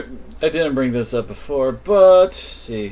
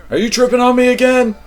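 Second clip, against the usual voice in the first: startled, pitched up high and loud; incredulous high; 12 semitones higher, 8 dB louder, faster than usual. Real, not acted. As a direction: sound genuinely thrown by it. Reacting to a vision.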